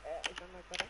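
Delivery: breathy and loud in the mic; too close to mic. Real, not acted. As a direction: mouth right against the mic. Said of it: "Just stop breathing in your mic".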